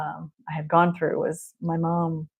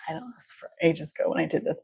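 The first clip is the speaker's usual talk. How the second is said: whispered aside; 2 semitones lower, 5 dB quieter, faster than usual. Real, not acted. Quick aside mid explanation.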